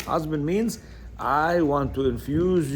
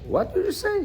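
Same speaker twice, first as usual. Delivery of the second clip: indignant king. Retold or imitated. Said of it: "Shlomo asked the rooster".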